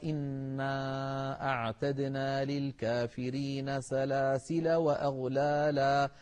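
slow chanted tajwid recitation; slow melodic recitation of the verse; Quran recitation. Shown as a demonstration. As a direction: let the verse ring out, measured and melodic.

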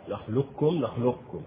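نخلقكم with the qaf fully merged into the kaf; full assimilation. Shown as a demonstration. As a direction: say نخلقكم as nakhlukkum, full idgham. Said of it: "إدغام كامل".

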